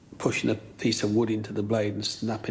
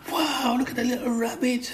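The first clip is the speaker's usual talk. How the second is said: put-on very high, excited child's voice; delighted child; 13 semitones higher than usual. Schoolkid gasps over the tiny rabbit, very high and thrilled. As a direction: squeal it like an amazed kid. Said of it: "and I was like".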